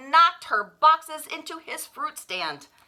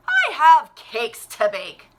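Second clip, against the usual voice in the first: cheerful baker; 10 dB louder than usual. A narrator's reading. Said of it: "said the baker".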